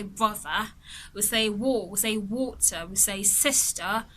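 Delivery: non-rhotic British "Brother" and "Water", with no R at the end; lightly voiced RP, R dropped; British RP accent. Shown as a demonstration. Teacher shows how a British speaker says "Water", light RP accent. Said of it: "someone from the U K will just say".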